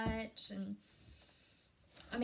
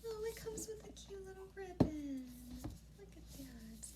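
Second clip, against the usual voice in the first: higher, charmed by the ribbon; delighted; 7 semitones higher, 4 dB quieter than usual. Real, not acted. Vlogger charmed by the ribbon, higher voice. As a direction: marvel at the little ribbon.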